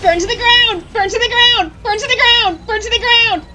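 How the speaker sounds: high, loud villain shouting the line. Acted. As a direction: bellow it like a game boss.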